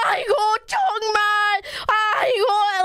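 imitated fussing ajumma; mock yelling. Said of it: "she was just yelling at us".

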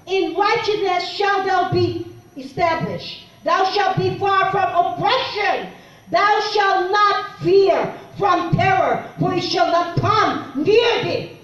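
slow, solemn scripture read. Acted. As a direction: read the verse slowly, with weight. Reads scripture.

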